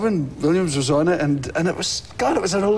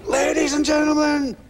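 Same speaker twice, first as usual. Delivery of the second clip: higher, booming announcer intro; announcer voice lightly done; 7 semitones higher than usual. Retold or imitated. Tour announcer introducing the act, hammed-up. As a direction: announce it to a packed arena. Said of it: "he would say".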